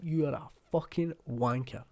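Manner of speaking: relishing the meanness, not truly furious; mean, mock-angry insult. Demonstrating how mean a Scottish insult sounds, mildly mock angry. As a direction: spell out the insult with mild venom. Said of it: "sounds so angry and so fucking mean".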